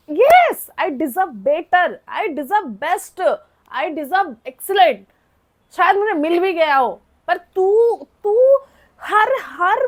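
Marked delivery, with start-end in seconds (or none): 0.1-5.0 sarcastic drawl. Acted. Drawn-out sarcastic self-affirmation.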